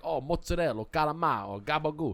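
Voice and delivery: put-on clipped-ending Brooklyn Italian accent. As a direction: imitate Italian-American Brooklyn food names. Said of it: "it's like that Brooklyn accent".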